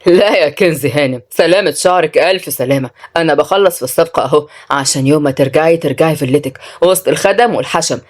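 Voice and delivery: low, sarcastic man's voice; lightly voiced mocking man. Man taunting Kenzi about her villa, mildly mocking. Plays Mansour in the story.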